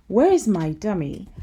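put-on loud demanding child; bossy little princess. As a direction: whine like a spoiled princess. Princess whining for her dummy.

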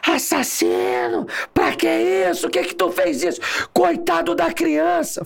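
high, drawn-out cries of outrage; imitated crowd shouting. Officer mimics angry students yelling at police, outraged shouting. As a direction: wail accusations like an inflamed bystander. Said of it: "E gritando".

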